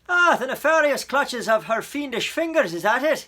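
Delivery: loud, gruff, mock-dramatic officer; amused policeman. A narrator's reading. Policeman humors Coraline's kidnapping story, loud and mock-dramatic. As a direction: play along grandly with a child's tale. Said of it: "could hear the smile in his voice".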